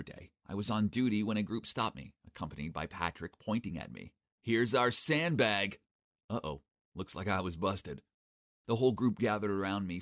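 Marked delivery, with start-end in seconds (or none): 4.4-5.8 slow menacing. Acted. Gang leader menacing.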